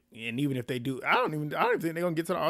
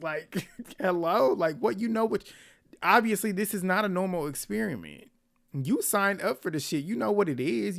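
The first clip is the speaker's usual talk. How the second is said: raised pitch, indignant and incredulous; exasperated disbelief; 6 semitones higher than usual. Real, not acted. Viewer answering his complaint about the experiment, exasperated disbelief. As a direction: challenge him as if it's obvious.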